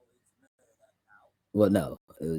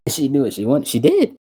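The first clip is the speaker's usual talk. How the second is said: amused and much higher, laughing through it; 6 semitones higher, 6 dB louder than usual. Real, not acted. Producer laughing about his client's request, amused. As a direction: laugh while you say it, tickled by her.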